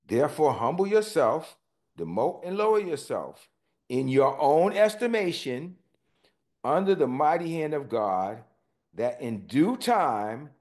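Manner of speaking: deliberate, emphatic Bible reading; scripture reading. Acted. Pastor reading the verse to the congregation, emphatic.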